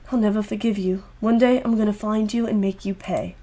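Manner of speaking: a hint of a cold threat. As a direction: promise revenge under her breath.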